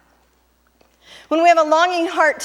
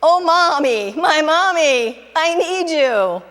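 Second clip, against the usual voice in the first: desperate plea; 4 semitones higher than usual. Retold or imitated. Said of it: "runs to God and says".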